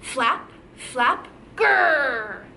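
chanted flaps, then a growl; dinosaur flap and growl. Shown as a demonstration. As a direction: flap twice, end in a playful grrr. Teacher models flaps and dinosaur growl.

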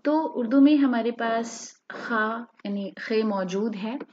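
ordinary talk

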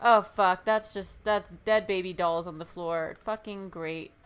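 ordinary delivery

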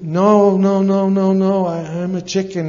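rapid-fire high, loud "no"s; scared eaglet pleading to get down; panicked refusal. Acted. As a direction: protest in a mock panic.

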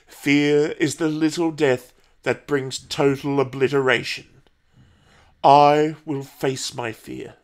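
measured recitation with long pauses; solemn litany. A narrator's reading. Paul recalls his mother's litany, solemn and deliberate. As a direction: recite it steadily to master fear.

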